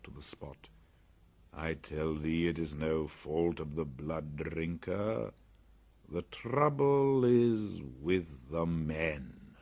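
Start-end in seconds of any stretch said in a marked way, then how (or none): 1.5-9.6 panther voice. Acted. Bagheera disagrees with Mowgli.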